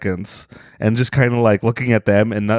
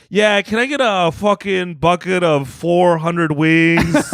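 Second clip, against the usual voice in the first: higher, slow, drawn-out order; acted brazen order; 5 semitones higher, slower than usual. Customer ordering at Popeyes beside the hungry woman, slow mock-casual order. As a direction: draw out the absurdly big order, higher.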